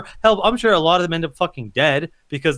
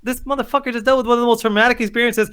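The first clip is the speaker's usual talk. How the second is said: retold outrage; 5 semitones higher than usual. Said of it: "I'm like".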